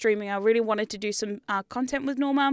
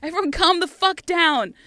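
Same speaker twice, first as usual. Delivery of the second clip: louder exasperated plea; 5 semitones higher, 4 dB louder than usual. Retold or imitated. Owner scolding the household, louder and exasperated. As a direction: plead with the whole house to calm. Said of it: "And you're like".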